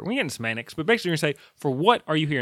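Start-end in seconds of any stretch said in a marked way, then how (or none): 1.5-2.4 "what" hit hard, falling after it; stress on WHAT. Shown as a demonstration. Vlogger showing the basic question form, stress on "what". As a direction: hit "what", let the rest follow down. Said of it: "it puts all the emphasis on the".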